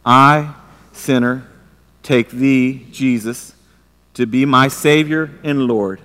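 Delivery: slow, formal vow read aloud together; solemn group vow. Shown as a demonstration. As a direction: recite it like wedding vows, slowly. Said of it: "Read this with me".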